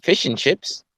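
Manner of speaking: slow, mocking British; mock British accent. Caller mocks British people's accent, slow mock British. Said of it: "British people like everyone's accent".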